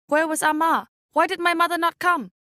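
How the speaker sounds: anxious. A narrator's reading. Lost child's desperate thoughts.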